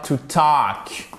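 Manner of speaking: "talk" with no L sound; long-vowelled "talk", L unspoken; silent L. Shown as a demonstration. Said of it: "on ne prononce pas le L".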